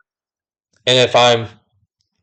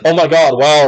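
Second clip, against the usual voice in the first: louder mock amazement; amazed voice; 4 semitones higher, 4 dB louder than usual. Customer amazed the worker is new to her, mock amazement. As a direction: gush a little as if impressed. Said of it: "amazed voice".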